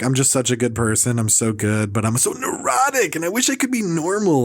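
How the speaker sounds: whiny self-pitying imitation, rising on neurotic; mock a comic's anguished self-regard; Marc Maron. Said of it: "just this whiny thing".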